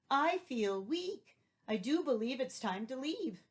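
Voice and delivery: wilt like a defeated goat; mock weak goat.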